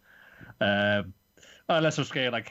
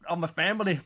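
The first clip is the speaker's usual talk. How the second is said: high, louder resentful voice; bitter accusing rant; 9 semitones higher, 3 dB louder than usual. Retold or imitated. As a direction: pour out the grudge as you blame him. Ho blames Bam.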